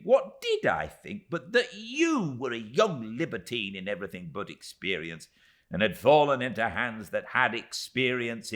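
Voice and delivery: high, loud, pressing little voice; agitated Miss Moucher. Acted. Miss Moucher explaining to David, agitated and high. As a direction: pour out the whole story in a rush of grievance.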